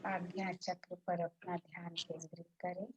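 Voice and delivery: unhurried relaxation guide, long pauses between phrases; guided meditation. Real, not acted.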